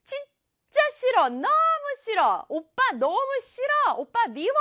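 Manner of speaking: put-on very high childlike tantrum voice; whine-yell it high at big brother; mock angry yelling. Teacher acts the sister yelling at her brother, mock angry yelling. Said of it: "이렇게 소리 지르는 게".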